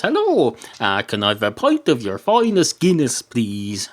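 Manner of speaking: dog ordering. Acted. Dog orders a pint in bar.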